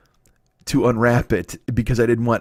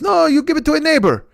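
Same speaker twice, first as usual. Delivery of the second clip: put-on high, eager accented old deli man; high eager voice of the old deli owner pushing a huge sandwich; 13 semitones higher, 4 dB louder than usual. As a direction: gush like a proud old shopkeeper. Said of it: "And he goes".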